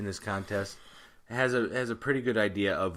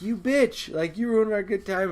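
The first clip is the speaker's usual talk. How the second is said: high-pitched retold indignation; raised, indignant mock outburst; mock accusation; 9 semitones higher, 3 dB louder than usual. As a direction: act out an outraged accuser. Crowd accusing her, acted.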